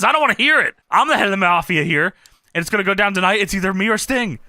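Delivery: Kurt, forceful. Retold or imitated. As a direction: lay down the law as the mafia head. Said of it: "So Kurt says".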